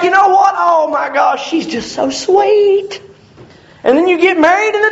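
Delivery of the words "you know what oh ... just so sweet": gushing fiancé. Retold or imitated. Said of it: "it's just like".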